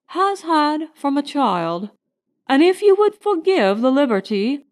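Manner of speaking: a butler gently warning his master; deferential butler. Acted. Butler warns Crane about the cook, deferential and cautious. Butler Smithfield voiced in story.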